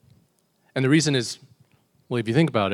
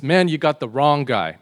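loud, higher-pitched protest; acted denial; 4 semitones higher, 8 dB louder than usual. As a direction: protest your innocence loudly.

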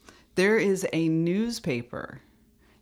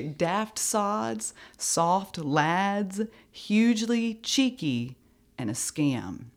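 tag; 4 semitones higher, much slower than usual. Shown as a demonstration. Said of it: "Let's do it again".

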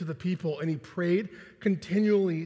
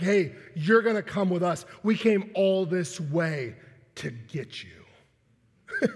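menacing; slower than usual. Retold or imitated. Roman guards at Peter's door come to take him, menacing. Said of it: "didn't say it that menacingly".

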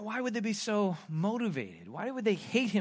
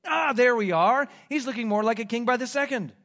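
higher, loud mock admiration; 6 semitones higher, 7 dB louder than usual. Soldiers dressing Jesus up as a king, mockingly. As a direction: pretend to admire the makeshift king. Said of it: "mocking type of way".

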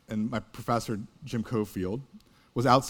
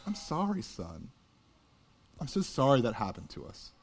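soft whisper; 5 dB quieter than usual. Retold or imitated. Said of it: "he whispers over him".

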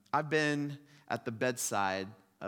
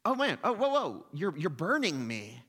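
high, loud pained cry of a burned ghost man; 5 semitones higher, 5 dB louder than usual. Retold or imitated. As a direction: yelp as if scorched. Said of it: "and the ghost man says".

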